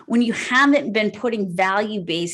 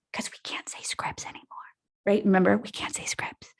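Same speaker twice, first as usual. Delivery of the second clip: conspiratorial whisper; 3 semitones lower, 8 dB quieter than usual. Real, not acted. Joke that scripts is a forbidden word.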